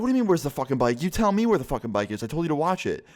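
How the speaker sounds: high, angry accusing; angry retold yell. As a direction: demand answers, fired up. Yelling at friend over lost bike.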